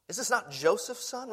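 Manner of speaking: scoffing rhetorical question; incredulous question. Retold or imitated. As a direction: lift it in disbelief, stress on not. Repeating the townspeople's question.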